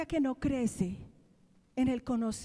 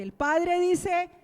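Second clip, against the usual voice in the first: tag; 6 semitones higher, 7 dB louder, much slower than usual. Real, not acted. Preacher announcing the Father's words.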